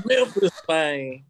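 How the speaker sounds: laughing mock Memphis "man"; Memphis accent. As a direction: imitate Memphis through a laugh. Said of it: "Any girl that says "man".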